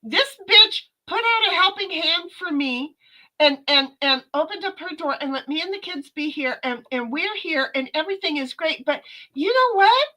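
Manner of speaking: high, loud ranting streamer voice; mock rant about a busy host; imitating T three on stream. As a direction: vent like a frazzled friend on a stream. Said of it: "And going".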